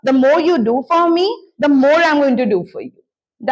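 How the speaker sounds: very slow, each word set apart for learners; slow model sentence. Shown as a demonstration. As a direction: spell it out slowly like a teacher giving the example. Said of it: "teacher models the English sentence". (धीमे-धीमे, साफ़ बोलकर उदाहरण वाक्य)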